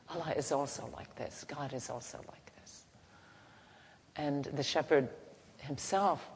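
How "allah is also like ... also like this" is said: humble. Acted. Moses' humble apology.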